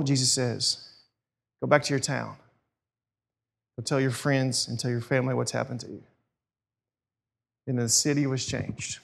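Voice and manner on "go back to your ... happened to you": low, soft, kindly sending-away; gentle instruction. Retold or imitated. Jesus sends the freed man home, gently. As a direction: lower and quieten into calm authority.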